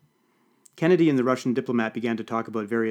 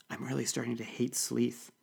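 much softer, private aside; hushed remark to a companion leaning in; confiding undertone; 8 dB quieter than usual. A narrator's reading. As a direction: drop the volume and confide it. Leaning close to confide while eavesdropping.

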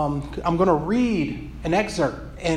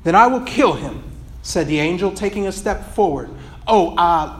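steady storytelling read of a passage; earnest read-aloud of a book excerpt; 2 semitones higher than usual. Acted.

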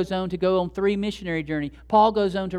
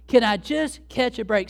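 higher, louder plea with "Can" stretched; 5 semitones higher, 5 dB louder than usual. Acted. Believer begging God a second time, exasperated and emphatic. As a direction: drag out "Can" and punch "just", exasperated. Repeats the plea more drawn out.

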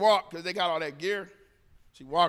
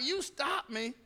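restrained; 3 semitones higher, 8 dB quieter, slower than usual. Retold or imitated. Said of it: "I'm catching myself, not getting upset".

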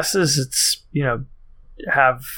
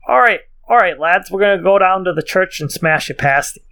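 higher-pitched, barely British attempt; failed British accent; 5 semitones higher, 4 dB louder than usual. Co-host tries a sentence on request, failed British accent. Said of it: "literally just your normal voice in kind of, like, a higher pitch".

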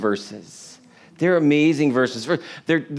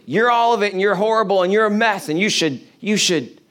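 devil accusing; 5 semitones higher, faster than usual. Retold or imitated. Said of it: "the devil's like".

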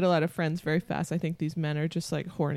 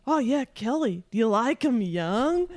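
put-on a half-hearted New Zealand accent, slower on the question; failed New Zealand accent; 5 semitones higher than usual. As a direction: try a New Zealand guy's accent and fall short. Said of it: "can't do the accent".

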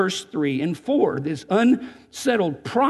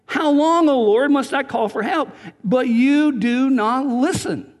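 higher, louder desperate cry to God; pleading with God, higher and louder; anguished plea; 5 semitones higher, 3 dB louder, slower than usual. Shown as a demonstration. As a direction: cry it out like you're pouring your heart out. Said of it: "he's really pouring his heart".

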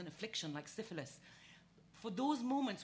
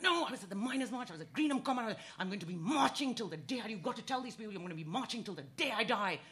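put-on defiant old woman; 2 semitones higher, 7 dB louder than usual. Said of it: "And she was like".

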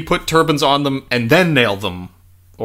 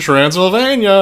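Transylvania drawn out slowly and louder; savoring the name; 5 semitones higher, 4 dB louder than usual. Shown as a demonstration. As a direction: relish each syllable of Transylvania. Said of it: "there's that name again".

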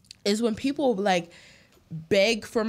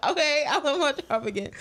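laughing relief; 6 semitones higher than usual. Retold or imitated. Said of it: "and I'm like".

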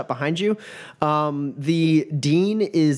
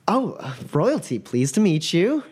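high, excited stammer; starstruck student; 8 semitones higher than usual. Acted. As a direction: gasp at meeting royalty. GM voices Mila.

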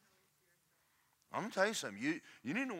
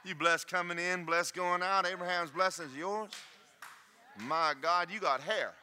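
mirror self-talk. Shown as a demonstration. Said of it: "talk to yourself".

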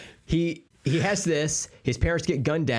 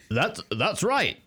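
high, halting voice with a speech impediment; Bruce Wayne; 5 semitones higher than usual. Acted. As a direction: introduce yourself in a silly high voice, haltingly. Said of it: "Bruce Wayne".

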